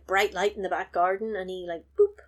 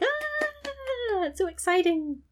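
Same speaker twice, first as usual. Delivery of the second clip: dim henchman voice; slower than usual. Acted. Dim henchman thrilled by toy.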